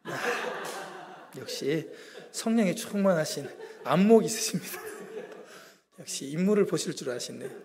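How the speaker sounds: chuckling through a self-mocking boast; laughing. Real, not acted. Preacher joking to the congregation about himself, laughing. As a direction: laugh while teasing the congregation.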